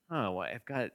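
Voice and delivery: een vleugje verontwaardigde dame, licht aangezet; indignant lady voice. Shown as a demonstration. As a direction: speel kort een beledigde dame. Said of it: "my sort of indignant lady voice".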